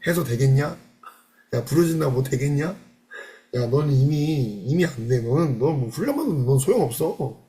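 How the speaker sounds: mild mock scorn of a doubting inner voice. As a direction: jeer at yourself under your breath, mildly. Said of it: "내 자아의 소리는".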